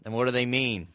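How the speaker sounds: podcast intro. Pretend. Host opening the podcast, mock-announcer intro. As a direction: build to a big podcast title.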